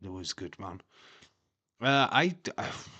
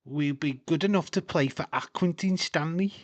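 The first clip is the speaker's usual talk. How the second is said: quoting dad; 9 semitones higher, 6 dB louder than usual. Retold or imitated. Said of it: "my dad said".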